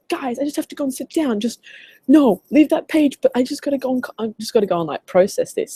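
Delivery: high-pitched imitation of a stunned American; put-on American accent. Coach imitating the US guy needing to sit down, overwhelmed American accent. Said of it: "Sorry about my accent".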